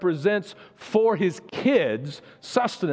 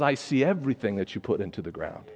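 voice of God; 3 semitones lower than usual. Acted. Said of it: "You're a God who says".

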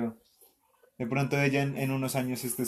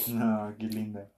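tender cooing; 5 semitones lower, 5 dB quieter, slower than usual. Real, not acted. Charmed adult cooing at little Sofía, slow and soft.

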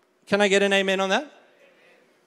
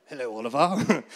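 a lightly voiced posh King Charles, a little lower; 5 semitones lower, 3 dB quieter than usual. Pastor voicing King Charles phoning Oliver, light mock-royal greeting. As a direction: greet him the way a king on the phone would, light and mock-regal. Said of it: "and he's like".

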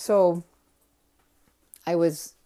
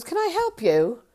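higher, louder, irritated demand; mock angry; 12 semitones higher, 6 dB louder than usual. Angry production manager to an intruder, mock irritated. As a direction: snap it at an unwanted visitor. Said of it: "Looked pretty angry. He was yelling".

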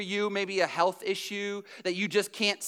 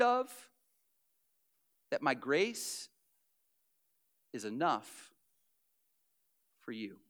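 tender God's voice. Acted. God speaks to Paul tenderly.

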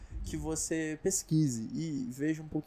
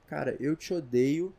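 mock angry; 4 dB louder than usual. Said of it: "como quem tá muito bravo".

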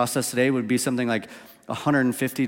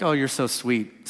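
loving; 3 dB quieter, slower than usual. Retold or imitated. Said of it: "a very loving".

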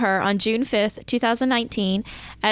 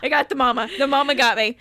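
teary laughing; 5 semitones higher than usual. Real, not acted. Host crying and laughing mid-story.

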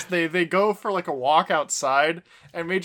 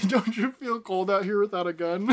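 quoting through laughter; 2 semitones higher than usual. Retold or imitated. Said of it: "That shit was actually good".

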